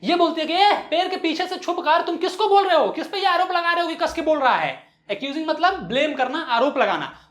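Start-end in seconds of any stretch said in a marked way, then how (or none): 0.5-4.9 high-pitched accusing call; mild acted yell; mock shouting vendor. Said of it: "वो भी चिल्लाकर बोलने वाली थी".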